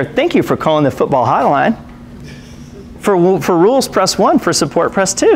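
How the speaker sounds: recorded phone-menu voice, rising high on the numbers; a light imitation of a phone menu; automated hotline menu. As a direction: read it like a canned hotline recording.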